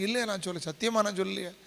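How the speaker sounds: softly acted protest of innocence; mock denial. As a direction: play a hushed, half-hearted denial. Acts out someone denying their words.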